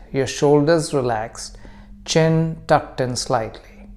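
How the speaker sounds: calm meditation guide with long pauses; guided meditation. Acted. Teacher leading listeners into breath practice, calm guided meditation. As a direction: guide them gently, unhurried, leaving room to breathe.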